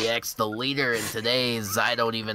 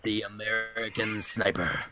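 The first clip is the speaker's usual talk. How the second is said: deliberate mock-trailer announcement; nickname on request; 4 dB quieter than usual. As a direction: intone it like a movie title. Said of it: "Just say it out loud".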